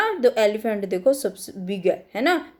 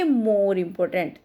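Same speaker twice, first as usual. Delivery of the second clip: each word spaced out slowly for the class; slow dictation; 3 semitones lower, much slower than usual. Shown as a demonstration. Teacher to her students, slow dictation. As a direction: dictate it slowly so children can write.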